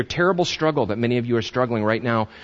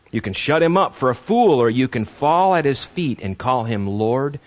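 preacher reading Lewis aloud, measured and solemn; solemn quotation reading. Real, not acted. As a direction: read it like scripture. Reads C S Lewis quote.

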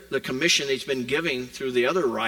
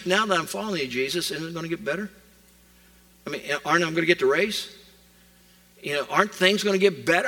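eager believer asking; faster than usual. Retold or imitated. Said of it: "the question that many, quote, Christ followers ask".

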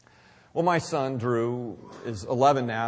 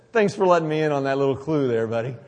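louder, quick teasing sarcasm; sarcastic thanks; 5 dB louder, faster than usual. Real, not acted. Father teasing his young son, playfully sarcastic. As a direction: tease him with mock gratitude. Dad answers son's honest confession.

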